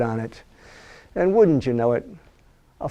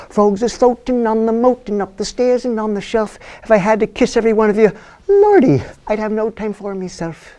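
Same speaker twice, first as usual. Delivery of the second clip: lightly voiced scornful princess, a bit higher; 5 semitones higher than usual. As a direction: brush off the frog, teasing. Princess answers the frog.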